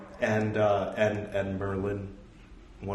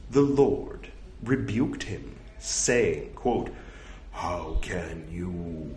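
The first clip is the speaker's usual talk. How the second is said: slightly louder, careful recital voice; scripture reading; 6 semitones higher, 8 dB louder, slower than usual. Acted. Reading a monastic rule aloud to his audience, measured recital. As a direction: read the old text out with measured weight.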